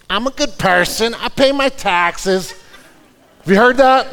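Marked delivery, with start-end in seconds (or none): 0.1-2.5 imitating a radio lady's fake Italian accent; lightly mocking Italian-accented ad voice. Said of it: "in a weird fake Italian voice goes".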